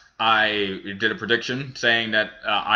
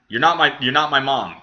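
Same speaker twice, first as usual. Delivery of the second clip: raised, louder mock protest; mock indignation; 5 semitones higher, 5 dB louder than usual. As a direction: push back in playful indignation, higher and louder. Mock scolding of a commenter.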